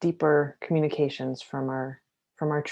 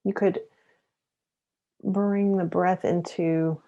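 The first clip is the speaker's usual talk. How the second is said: guided meditation. Acted. Mindfulness teacher pacing listeners through shoulder rolls with the breath, guided meditation. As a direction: lead each breath and movement unhurriedly.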